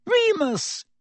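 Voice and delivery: high desperate squeak of the name. Acted. Pettigrew turning to Lupin, a high squeaking plea. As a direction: squeak it like a cornered rat. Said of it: "Pettigrew squeaked".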